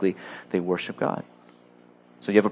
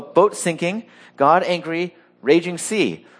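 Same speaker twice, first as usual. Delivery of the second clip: higher, clipped mock-simple Jonah voice; caveman talk; 5 semitones higher, slower than usual. Preacher mocking Jonah's obvious choice, caveman-style. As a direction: spell it out like a caveman. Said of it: "He could look at the boat and go".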